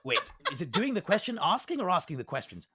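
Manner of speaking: quick laughing self-correction; laughing aside. Real, not acted. Game master laughing while fixing his own line. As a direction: break character to fix the line, amused. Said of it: "GM breaks to check phrasing".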